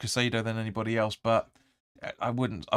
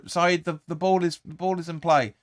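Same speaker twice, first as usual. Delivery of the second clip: shouting at the player; 5 semitones higher than usual. Real, not acted. Yelling at player on screen.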